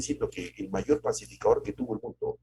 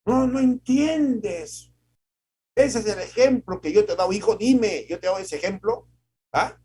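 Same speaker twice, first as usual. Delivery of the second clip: much higher and louder, slow furious shouting; shouting father; 12 semitones higher, 8 dB louder than usual. Retold or imitated. A father yelling at his son about his example, furious. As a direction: scold the son at full voice. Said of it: "Y nos gritaban".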